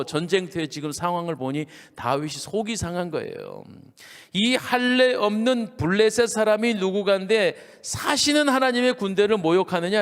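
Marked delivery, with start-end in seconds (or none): 4.3-10.0 indignant, raised-pitch challenge; preacher acting out a warrior's holy anger; righteous outrage. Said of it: "막 분기충천했어요". (의분에 찬 높은 목소리로)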